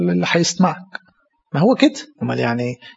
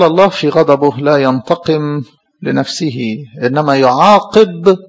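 slow, solemn quotation; quoting a saint; 2 semitones lower, slower than usual. Acted. Priest quoting Didymus to the congregation, slow and solemn. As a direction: weigh each word of the saint's saying.

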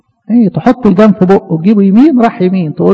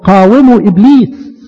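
slow scripture quote; slower than usual. Shown as a demonstration. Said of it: "لان الكتاب المقدس".

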